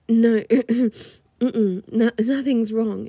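loud flustered no, covering her shock; flustered denial. Acted. Stewardess caught gawking at the client, loudly flustered. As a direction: blurt it out, then recover too loudly.

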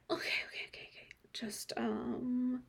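breathless hushed whisper; steady yourself in a whisper. Acted. Calming herself, hushed.

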